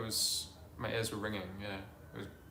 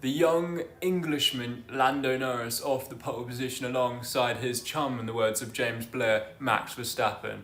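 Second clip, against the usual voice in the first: Sky Sports reporter voice. Pretend. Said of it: "put on my Sky Sports, uh, reporter voice".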